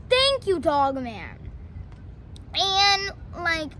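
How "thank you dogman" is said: grateful thanks. Retold or imitated. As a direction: burst out thankful. Grateful chief thanks Dogman.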